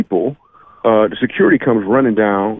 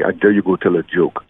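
put-on German accent; 3 semitones lower than usual. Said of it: "That's the best German accent I could come up with".

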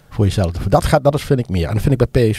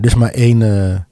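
talking with a cold, blocked nose; stuffed-up nose from a cold; stuffy nose. Real, not acted. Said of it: "sorry, ik ben verkouden".

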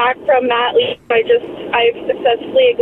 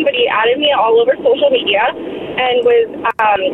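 car speakerphone. Real, not acted. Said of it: "you're on Bluetooth".

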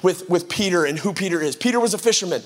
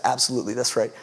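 Jesus voice; 8 semitones lower, 4 dB quieter, faster than usual. Retold or imitated.

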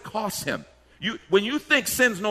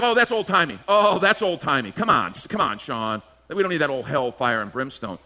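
mock scoffing; 3 semitones lower than usual. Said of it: "we get like".

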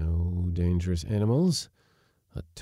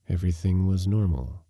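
plain reading voice

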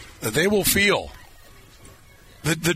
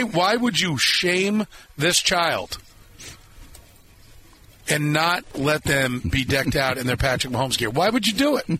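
hammed-up indignation, pitch climbing; mock outrage; 3 semitones higher than usual. Host jokingly scolds parents without Mahomes onesies, mock outrage. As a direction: scold the listeners in jest.

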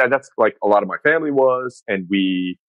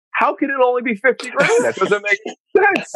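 指数; 14 semitones higher than usual. Retold or imitated. Retold outraged phone call.

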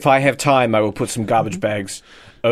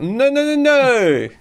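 much higher, louder panicked no's; outraged Elon Musk; 14 semitones higher, 4 dB louder, slower than usual. Retold or imitated. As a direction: squeal the refusal in protest. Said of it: "And he's like".

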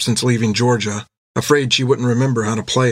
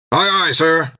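a touch higher, crisp reply; sailor voice; 5 semitones higher, slower than usual. Acted. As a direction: answer the captain smartly. Jack answers captain.

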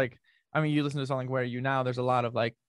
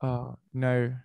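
American trying an Australian "no"; Aussie-style drawn-out "no"; Australian accent. Shown as a demonstration. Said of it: "can you do an Australian accent".

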